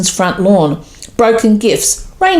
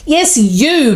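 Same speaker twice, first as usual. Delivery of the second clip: bellowed; 8 semitones higher than usual. A narrator's reading. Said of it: "bellowed Santa".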